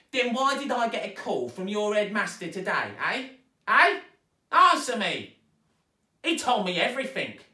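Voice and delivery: high, loud yelling tirade; furious stepmother. A narrator's reading. Stepmother yelling at Zoe about the headmaster, furious. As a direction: rage at the girl.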